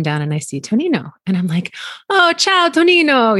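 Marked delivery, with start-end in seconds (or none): 2.1-3.4 high, louder bright hello; cheery greeting. Retold or imitated. Greets Tonino in the morning, high and bright. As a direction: sing out a happy ciao.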